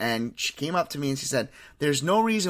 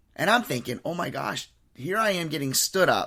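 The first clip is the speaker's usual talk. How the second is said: plain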